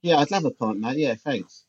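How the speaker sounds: a put-on accent with a hint of an odd local lilt; lightly voiced pub mate; weird accent for Nick. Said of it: "weird accent for Nick".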